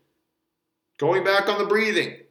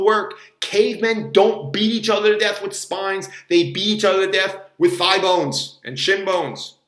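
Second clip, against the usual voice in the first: emphatic; 4 dB louder than usual. Real, not acted. Ranting emphatic conclusion.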